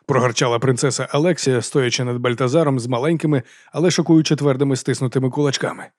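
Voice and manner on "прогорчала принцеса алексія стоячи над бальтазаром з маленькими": usual speaking voice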